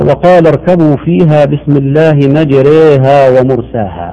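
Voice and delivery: مجريها with the ra leaning between fatha and kasra; correct imala. Shown as a demonstration. Sheikh repeats the verse on request, slow and careful. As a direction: read مجريها ومرساها with the middle imala. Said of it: "أرجو أن تعيدها".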